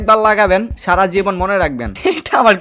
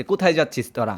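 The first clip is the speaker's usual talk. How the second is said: mock quote; 6 semitones lower, 7 dB quieter than usual. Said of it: "জিজ্ঞাসা করতেছে".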